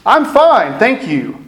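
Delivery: borderline lying. Retold or imitated. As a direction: chirp it up high, covering how you really feel. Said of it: "in my borderline lying".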